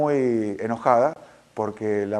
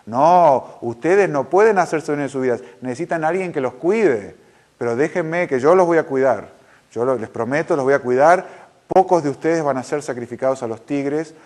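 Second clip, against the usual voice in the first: tyrant's promise. Retold or imitated. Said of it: "Esa es la filosofía del tirano".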